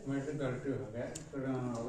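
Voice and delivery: talking around a mouthful of gutkha; words thick with tobacco in mouth; mouth full of chewing tobacco. Real, not acted. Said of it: "मुंह में गुटखा लेके बोल रहे हैं".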